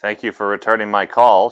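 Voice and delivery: dry sarcastic thanks. Acted. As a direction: say it with a sarcastic bite. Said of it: "she thought sarcastically".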